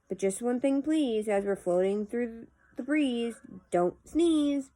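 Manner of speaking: measured, lilting poem reading; poetry recitation. Acted. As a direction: read the verse aloud with pauses at each phrase. Reads a poem aloud.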